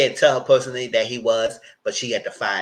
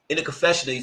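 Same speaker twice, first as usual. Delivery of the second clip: a touch higher, imitating stiff confessional talk; mimicking his talk; 4 semitones higher, faster than usual. Shown as a demonstration. Host imitating how Pablo talks in confessionals. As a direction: do his neck-up confession voice lightly. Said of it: "talking like this".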